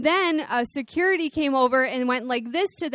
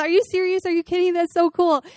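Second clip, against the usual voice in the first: excited disbelief; 4 semitones higher, faster than usual. Retold or imitated. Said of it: "we call each other".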